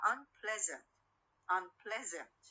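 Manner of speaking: "unpleasant" with the stress on PLEA, not un; stress stays on stem. Shown as a demonstration. Teacher showing the prefix leaves stress alone, PLEA stressed in "unpleasant". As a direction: keep PLEA strongest in "unpleasant". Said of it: "ولا يأثر لي على مكان الستريس".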